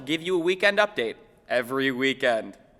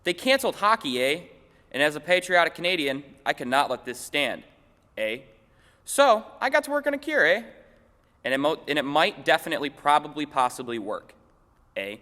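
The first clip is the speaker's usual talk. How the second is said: Canadian scientist. Acted. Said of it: "One of the head scientists had this to say".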